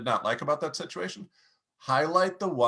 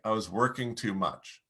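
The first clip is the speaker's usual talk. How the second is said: low, soft and heavy; 3 semitones lower, 4 dB quieter than usual. Shown as a demonstration. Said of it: "Lower your volume, lower your voice".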